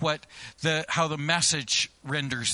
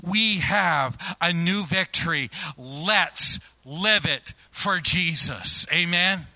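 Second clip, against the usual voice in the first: preaching; slower than usual. Acted. Preaching climax.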